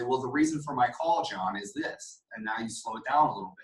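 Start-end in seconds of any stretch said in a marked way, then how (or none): 0.0-2.2 a measured, reasonable opener; slowed-down pitch. Shown as a demonstration. Salesman slowing down for a reserved prospect, calm. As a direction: ease into the reason for the call, calm and unhurried. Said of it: "Now you slow it down and say".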